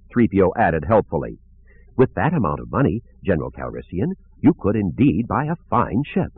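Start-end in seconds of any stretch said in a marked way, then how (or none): 1.9-6.3 lightly voiced prim droid; a fussy, polite robot butler; C-3PO.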